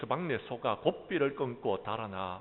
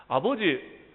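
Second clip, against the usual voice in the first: much higher, louder shouting son; angry shout; 11 semitones higher, 11 dB louder than usual. Acted. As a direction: yell the blame at the father. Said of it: "하고 소리를 질러댑니다".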